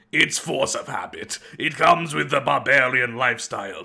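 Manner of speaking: bully the little man in fake Russian; pseudo-Russian accent. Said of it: "a pseudo-Russian accent there".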